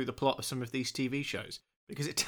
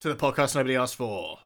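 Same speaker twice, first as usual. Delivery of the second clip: trailer voiceover guy; 3 dB louder than usual. Acted. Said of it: "a trailer voiceover kind of guy".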